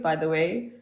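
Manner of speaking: normal talking voice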